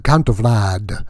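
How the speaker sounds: hammed-up comic vampire count; lightly voiced comic Count Vlad; Count Vlad character. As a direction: play the wacky vampire count, boastful and loose. Held Count Vlad comedy character voice.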